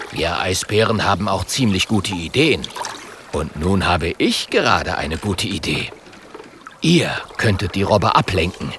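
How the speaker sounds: lightly voiced bear pleased with himself; polar bear voice. Polar bear laying out his plan to the friends, low and smug. Björn boasting and planning.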